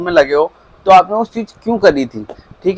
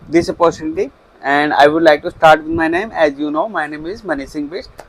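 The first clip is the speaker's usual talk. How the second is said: slow, careful English self-introduction; slow demo of a polite interview opening; much slower than usual. Shown as a demonstration. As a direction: say it slowly and clearly to the interviewer. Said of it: "एक great के साथ start करना".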